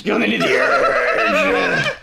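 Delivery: very low, drawn-out announcer voice; slow, deep tagline from a hammed-up film trailer; Russ Meyer trailer announcer. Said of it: "get the Russ Meyer guy to advertise".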